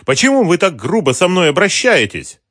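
high, loud indignant protest. A narrator's reading. Mara to the thug, high and indignant. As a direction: demand why they are so rough. Woman protesting rough treatment.

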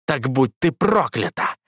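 медленно выплюнуть проклятие; проклясть с омерзением, медленно; с отвращением. A narrator's reading. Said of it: "с отвращением выплюнул он". (бог проклинает богиню: медленно, с отвращением)

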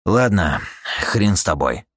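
short, reluctant concession; grudging grumble. Acted. Eugene giving in to the buyer, grudging grumble. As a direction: give in with a mild grumble. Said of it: "буркнул Юджин".

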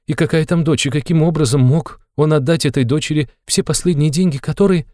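high, agitated mother's voice; a mother spilling her worries, pitched high; fretting mother. A narrator's reading. Mother frets about her son.

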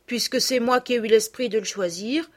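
lightly voiced gaiety; a touch of good-humoured cheer; cheerfully. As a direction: say it with a brave cheerful lift. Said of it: "dit Sophie avec gaieté".

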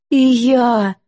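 mild relieved outburst; relieved exclaim. A narrator's reading. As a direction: let it out like a weight off your chest. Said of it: "облегчённо выдохнула Лорен".

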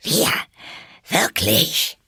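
high-pitched, affronted outburst; indignant mouse. A narrator's reading. The trembling mouse answers Alice, indignant. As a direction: fire back each word separately, affronted. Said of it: "die bis zur Schwanzspitze zitterte".

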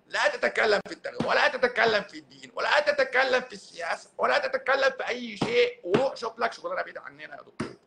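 lightly mock a preachy detractor scolding the doctor; mocking critics. Imitating a critic who tells the doctor to shut up, preachy. Mocks critics telling him to stop.

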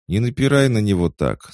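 high, loud wildcat voice; wild cat voice. A narrator's reading. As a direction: speak up as a bold wild cat. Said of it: "сказала дикая кошка".

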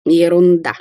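loud, dismissive exclamation; flat dismissal. Acted. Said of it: "безапелляционно воскликнула Кварц".

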